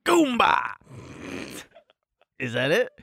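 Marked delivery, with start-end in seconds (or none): 0.1-0.7 excited blurt. Real, not acted. Blurting a joke punchline guess.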